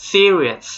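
serious with an audible s at the end; final S sounded. Shown as a demonstration. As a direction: model serious, finishing clearly on the S. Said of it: "อย่าลืมตัว S". (serious ออกเสียงตัว S ท้ายคำให้ชัด)

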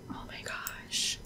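breathless whispered oh my gosh; awed whisper. Real, not acted. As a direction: whisper it in awe, slowly. Awed reaction to the park.

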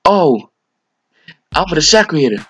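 mocking teammate's thoughts. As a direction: ham up the dumb teammate's inner monologue. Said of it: "this nigga was probably thinking in his head".

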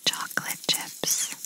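slow whisper right into the ear. Shown as a demonstration. Examiner whispering test words over a noise distraction, slowly. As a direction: draw out the whisper close to one ear. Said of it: "as I whisper in this one".

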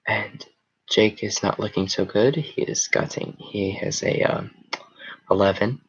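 golf announcer. Pretend. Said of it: "Golf announcer voice".

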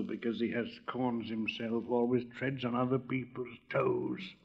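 slow, hushed whisper; low whisper. A narrator's reading. Roman candle confides a jibe to the cracker, low whisper. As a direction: whisper it slowly, low and secretive. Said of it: "answered the Roman candle in a low whisper".

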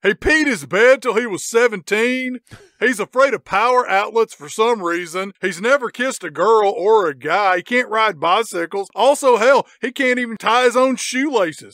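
emphatic mock radio rant; taunting henchman. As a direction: list his shames with relish. Henchman taunting boss over radio.

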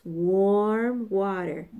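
ordinary delivery, nothing marked

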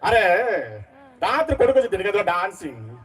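a hint of an angry father from a film; Prakash Raj mimicry. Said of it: "Prakash Raju".

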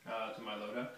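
talking through a throat mic. Real, not acted. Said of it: "tactical throat mic".

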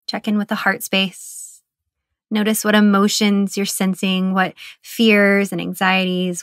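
calm, even meditation guide; guided meditation. Acted. Guide settling listeners into their bodies, guided meditation. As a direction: ease the listener into body awareness, with pauses between phrases.

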